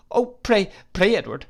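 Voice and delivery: very high, loud desperate cry; crying plea. Acted. Distraught wife crying out to her husband. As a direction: cry out begging him. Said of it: "cried my mother".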